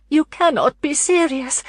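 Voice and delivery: high, sharp alarmed cry; alarmed exclamation. A narrator's reading. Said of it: "she exclaimed, her alarm evident".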